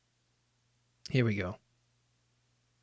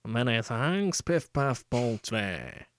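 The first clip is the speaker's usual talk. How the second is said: put-on Yorkshire accent; much slower than usual. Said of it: "It's more like a Lancashire thing".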